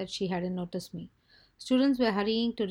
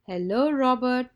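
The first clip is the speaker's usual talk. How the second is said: loud, slow, higher-pitched call; louder; 4 semitones higher, 8 dB louder than usual. A narrator's reading. Boy trying to get his oblivious friend's attention, louder. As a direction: raise the voice and stretch out the greeting. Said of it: "I said louder".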